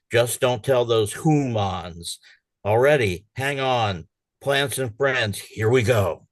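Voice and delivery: animated, exasperated Earth plotting against pests; humorous dramatic reading. Acted. Poet voicing a fed-up Earth to friends, animated dramatic reading. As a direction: read it as an indignant, scheming monologue. Reads own humorous poem aloud.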